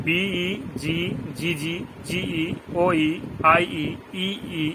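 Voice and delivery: slowly spelling out the rule again; slow it down for the class; slow repeat. Shown as a demonstration. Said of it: "আবার বলছি". (ধীরে ধীরে আবার বলা)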